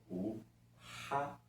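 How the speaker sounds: o ra stretched slowly and isolated; showing the rr digraph as one sound. Shown as a demonstration. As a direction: hold the ra sound so it stands alone. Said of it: "Então, eu tenho aí".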